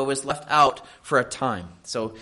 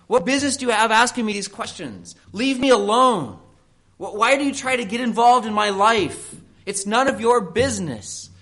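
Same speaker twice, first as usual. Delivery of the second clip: defensive churchgoer; 7 semitones higher, 3 dB louder than usual. Retold or imitated. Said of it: "That's the way we talk about it".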